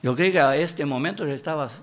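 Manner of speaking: usual speaking voice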